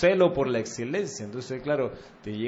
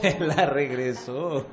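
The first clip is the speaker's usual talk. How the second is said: laughing; much slower than usual. Real, not acted. Laughing at the returned coin.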